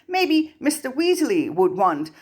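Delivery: high, slow hopeful suggestion. A narrator's reading. Harry suggesting a regent, high slow hope. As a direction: float the idea, high and slow.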